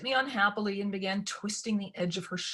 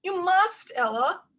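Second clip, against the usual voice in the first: plaintive stepmother; 12 semitones higher, 6 dB louder, slower than usual. A narrator's reading. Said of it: "raising her voice plaintively".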